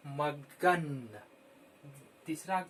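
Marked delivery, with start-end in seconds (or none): 0.1-1.2 मगन drawn out very slowly; very slow pronunciation. Shown as a demonstration. Teacher stretching मगन so children hear each letter. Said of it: "उच्चारण पे ध्यान देंगे".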